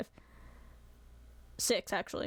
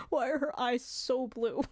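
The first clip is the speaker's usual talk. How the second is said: 1 amused wonder; 3 semitones higher than usual. Real, not acted.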